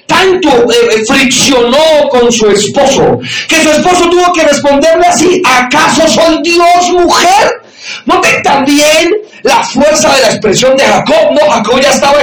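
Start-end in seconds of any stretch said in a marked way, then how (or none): 5.4-7.6 slow, drawn-out exasperated plea; a weary husband, fed up, pleading; slow, rising cry of exasperation. Retold or imitated. Jacob answering his nagging wife.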